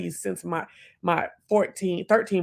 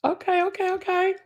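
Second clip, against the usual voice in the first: excited okays; 13 semitones higher than usual. Real, not acted. Thrilled reaction after a gift.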